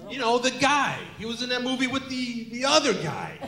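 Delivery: halting, hammed-up old man. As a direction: struggle to explain as an elderly father. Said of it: "that's my old voice".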